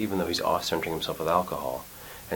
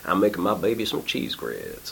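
put-on Louisiana accent. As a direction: imitate a north Louisiana dad's accent. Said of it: "he's got a Louisiana accent".

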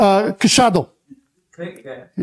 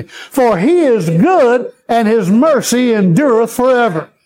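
call and response; slower than usual. Shown as a demonstration. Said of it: "Now say it with me".

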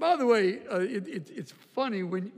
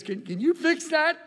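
wife asking; 10 semitones higher, 3 dB louder than usual. Retold or imitated. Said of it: "she says".

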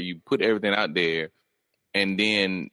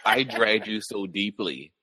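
mock smug boast; slower than usual. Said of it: "she said, like".

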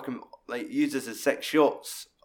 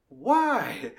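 wary Dave; 6 semitones higher than usual. Retold or imitated. Dave's reply in retold scene.

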